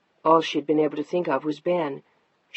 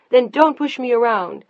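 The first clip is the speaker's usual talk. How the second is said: higher, louder snap; angry retort; 7 semitones higher, 8 dB louder than usual. Acted. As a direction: fire it back. Wife snaps back.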